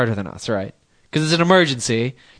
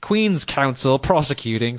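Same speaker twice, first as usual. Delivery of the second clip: put-on slow, slightly raised British accent for a barrister's name; lightly put-on posh English accent, drawn out. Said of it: "I had to do the accent for that".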